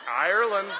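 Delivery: a burst of thrilled, laughing excitement; pumped. Retold or imitated. After her DNA test, hammed-up glee at being Irish. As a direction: say it like you just won something. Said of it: "I'm so pumped".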